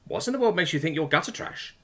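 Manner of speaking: high, upbeat reassuring question; cheery. A narrator's reading. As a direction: lift someone's mood with bright disbelief. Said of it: "said Adam cheerily".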